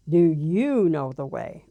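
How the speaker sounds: slow, low and stern; a booming voice asking gently but firmly; lightly voiced stern voice of God, slow; stern divine voice. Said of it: "Very stern".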